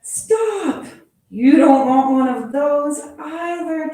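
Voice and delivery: high, loud stop; loud high alarmed cry; alarmed shout. Acted. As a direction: shout a sudden warning. Warning about a new pet.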